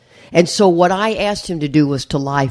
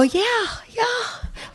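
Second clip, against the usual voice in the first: sheepish yeah; 8 dB quieter, much slower than usual. Retold or imitated. Sheepish reply on radio.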